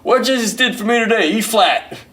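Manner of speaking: high, loud, breezy reply with a laugh; hammed-up cheerful bandleader; deadpan musician. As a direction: answer like it's obvious. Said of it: "Brother Driver says".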